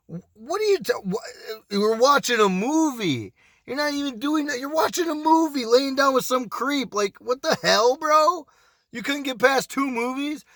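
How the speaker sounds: stammering start, then high-pitched disbelief; incredulous protest. Retold or imitated. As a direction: act out exasperated astonishment at her. Retold outraged reply to her.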